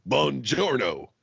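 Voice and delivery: put-on slow Italian greeting in a thick Kentucky accent; drawn-out Buongiorno in a Kentucky twang; mock Italian with a heavy Kentucky accent. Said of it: "in that fucking thick ass Kentucky accent".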